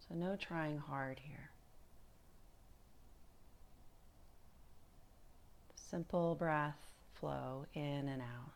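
calm, unhurried meditation guide with long pauses; guided meditation. Acted. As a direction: ease them gently through body and breath, leaving space between phrases.

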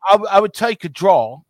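lightly put-on English accent. Podcast host imitating Liverpool fans praying for a draw, English accent. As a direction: do a British football fan's accent. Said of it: "that's a good accent".

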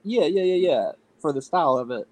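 muffled, face in a pillow; talking into a pillow. Real, not acted. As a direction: speak with your mouth pressed into a pillow. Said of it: "try not to talk into the pillow. You're a little muffled".

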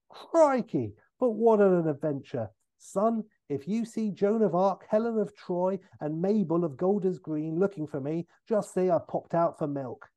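put-on high, exclaiming opening, jaunty old rogue; Michael Caine. Father stepping out of a fissure, pleased and exclaiming. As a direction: play a self-pleased father back from adventures. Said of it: "is played by Michael Caine".

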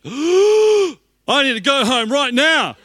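hammed-up alarm, drawing every word out; panicked. Pastor hammily panicking after the lady's three words.

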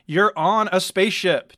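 incredulous. A narrator's reading. Chirwa to Dactyl, incredulous at the game. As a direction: stress the obvious.

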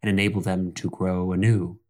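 lightly voiced wise elder explaining gently; a patient mentor teaching a child; calm elder teacher. Elder teaches about reeds.

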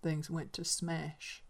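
slow, soft, broken voice; old man's voice breaking after the quarrel; quiet and sad. Acted. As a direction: let the words fall away sadly. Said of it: "he said quietly and sadly".

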